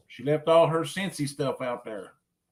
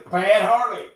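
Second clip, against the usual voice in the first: laughing mock scold; 4 semitones higher, 5 dB louder than usual. Real, not acted.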